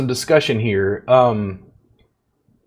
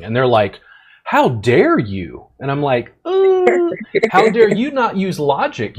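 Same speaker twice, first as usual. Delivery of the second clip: condescending tone. Retold or imitated. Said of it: "That sort of tone of ... condescension".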